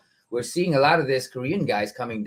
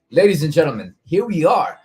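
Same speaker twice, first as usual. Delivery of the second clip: fighting game announcer; 5 dB louder than usual. Shown as a demonstration. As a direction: call out to the crowd like an arena host. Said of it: "that announcer voice that I have right now".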